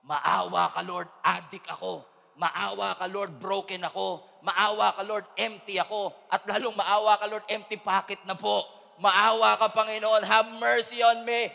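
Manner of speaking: rising urgent prayer for mercy. Acted. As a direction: beg harder with every line. Voiced prayer for mercy, building.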